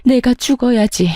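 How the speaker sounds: mother-in-law's hammed-up lament, crying aigo; fake wailing. Mother-in-law fakes tears in front of her son, hammed-up wailing. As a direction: play a theatrical mock wail of self-pity. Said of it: "곡소리를 내기 시작하더군요".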